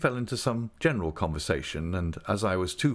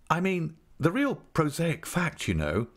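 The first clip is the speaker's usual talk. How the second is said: gentle; 10 semitones higher, slower than usual. Acted. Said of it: "mildly breaking the truth to her".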